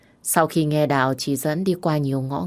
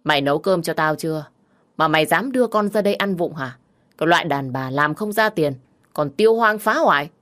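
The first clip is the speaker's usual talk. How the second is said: put-on slurred drunk voice. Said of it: "giọng nói lè nhè".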